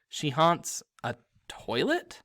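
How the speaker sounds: slow, disbelieving question; incredulous. Acted. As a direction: ask it in disbelief. Harry incredulous at toilet ghost.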